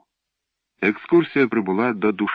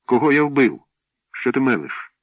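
louder, higher, offended protest; indignant outburst; 6 semitones higher, 4 dB louder than usual. A narrator's reading. Boy protesting he killed nobody, indignant outburst. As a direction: throw the accusation back at him.

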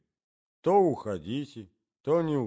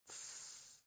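hushing whisper; 24 dB quieter than usual. A narrator's reading. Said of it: "раздалось под кроватью".

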